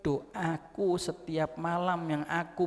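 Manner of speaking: solemn sermon climax, drawn out; emphatic declamation. Acted. Preacher declaims the Prophet's answer.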